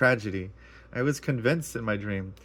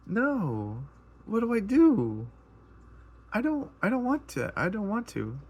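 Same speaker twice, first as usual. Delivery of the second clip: retold ugly crying; 9 semitones higher than usual. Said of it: "in my dream, I'm ugly crying".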